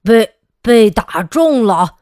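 loud defeated villain threat; villain's threat. Acted. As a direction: spit out a parting threat. Defeated villain vows revenge.

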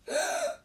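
short, high gasp; sharp acted intake of breath; startled gasp. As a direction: gasp in shock. Monk startled by the attack.

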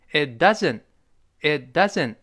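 'It doesn't' with both t's unreleased; dropped T sounds. Shown as a demonstration. Teacher showing lost plosion, 'It doesn't' with silent t's. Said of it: "两个t都没有了".

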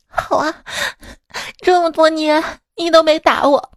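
拔高声音像吃醋似地控诉; 夸张地演成被辜负的样子; 模仿哥哥哭诉. Retold or imitated. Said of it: "一边哭一边说". (模仿哥哥一边哭一边控诉)

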